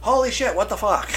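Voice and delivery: high, startled disbelief; shocked exclamation. Retold or imitated. Quoting friend hearing the movie, high startled disbelief. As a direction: jolt as the sound hits. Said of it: "Let me put the headset".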